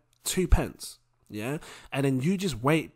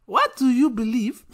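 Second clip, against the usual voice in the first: pressing Nigerian mum, a touch higher; 7 semitones higher, 4 dB louder than usual. Acted. Mum pressing her son about belief, insistent. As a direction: push him for an answer like a mum. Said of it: "When you got a half Nigerian mum".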